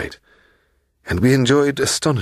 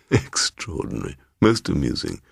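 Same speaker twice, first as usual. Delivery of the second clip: lightly voiced fussy old man; a hint of a pompous host; eccentric old gentleman; 2 semitones lower, 3 dB quieter than usual. Mister Bloom mocks.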